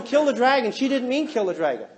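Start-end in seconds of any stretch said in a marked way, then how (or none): 0.0-0.7 loud mock yell; retold yell. Wife yelling orders to husband, imitated yell. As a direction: imitate a yelled command, raised voice. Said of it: "She was yelling".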